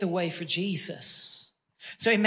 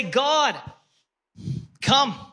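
fervent prayer; 4 semitones higher than usual. Acted. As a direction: cry out to God for the city. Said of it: "call out to the Lord and say".

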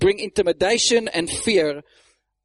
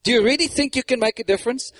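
mock doubt, often pitched up; mocking accusation; 3 semitones higher than usual. The enemies scoffing at the builders' plans, mocking. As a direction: question them with exaggerated skepticism. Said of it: "the first thing is through mockery and accusation".

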